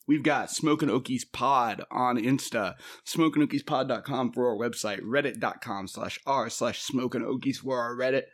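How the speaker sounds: slow, clear plug of the socials; announcer read. Acted. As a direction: announce each handle carefully. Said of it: "shout out them socials".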